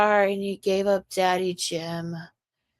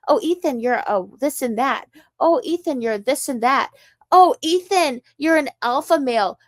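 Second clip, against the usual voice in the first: mocking taunt; 4 semitones higher, 4 dB louder than usual. Mocking repeated taunt, building.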